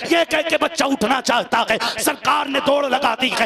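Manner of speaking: loud, high, rising sermon delivery with hammered peaks; full-force preaching. Acted. Preacher to the gathering, telling the boy's last moments: impassioned preaching.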